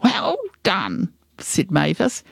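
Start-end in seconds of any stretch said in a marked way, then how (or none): 0.0-1.1 lightly voiced granny praise, pitched up; a touch of high-pitched approval; mildly congratulatory granny. Granny congratulates her gang.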